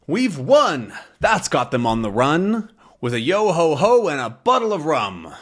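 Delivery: captain cheering as the intruders flee, hammed-up triumph; triumphant captain. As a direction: crow about the win like a pirate. Triumphant pirate chant.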